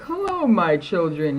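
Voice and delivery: drawn-out, mock-sweet teacher greeting; sarcastic teacher. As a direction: imitate a sarcastic teacher, slowly. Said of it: "it'd kinda be sarcastic".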